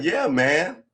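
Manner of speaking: loud, high backup shout. Retold or imitated. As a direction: bark it like a backing-up buddy. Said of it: "his buddy was like".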